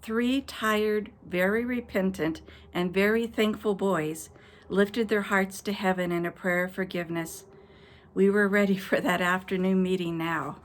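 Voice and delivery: put-on gentle storybook reading to children; story narration. Children's host closing a bedtime story, gently read.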